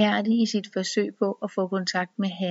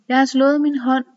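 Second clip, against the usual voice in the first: sobbing with laughter; 6 semitones higher, 6 dB louder than usual. A narrator's reading. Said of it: "hulker hun af grin".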